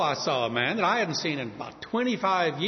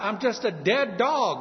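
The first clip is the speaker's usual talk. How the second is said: lowly "dead dog" falling to the end; earnest, humble self-abasement; humble grovel; 4 semitones higher than usual. Retold or imitated. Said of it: "He grovels in gratitude".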